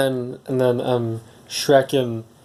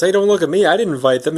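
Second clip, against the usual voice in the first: higher, defensive protest in a lightly put-on voice; Donkey; 5 semitones higher, 3 dB louder, faster than usual. Blamed donkey protests to the ogre, higher and defensive. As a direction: deny the blame, pitch jumping up at the start. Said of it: "Donkey goes".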